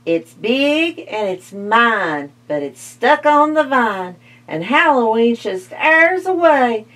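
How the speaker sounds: a hint of a cackling witch. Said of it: "said the witch".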